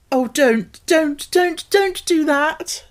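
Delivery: high, loud, desperate pleading; begging him to stop before all is spoiled; crying out. A narrator's reading. Mary begging Colin not to open the door, desperate cry. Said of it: "she cried out".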